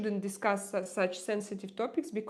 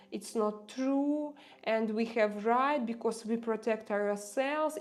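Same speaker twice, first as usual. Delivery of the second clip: imitating her cousin; 4 semitones higher than usual. Retelling her cousin's war propaganda on the phone, in a higher mocking voice. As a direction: parrot his smug certainty back, raised and insistent. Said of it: "my cousin called me saying that".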